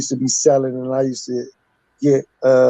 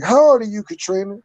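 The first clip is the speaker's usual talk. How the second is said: grandma interrogating; 6 semitones higher than usual. Retold or imitated. Grandma questioning caller.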